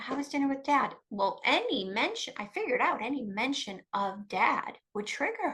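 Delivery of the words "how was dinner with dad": higher, sugary, careful question; be nice through gritted feelings; forced nice. Retold or imitated. Triggered mother asking daughter about dinner, forced nice. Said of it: "oh, I'm gonna be nice".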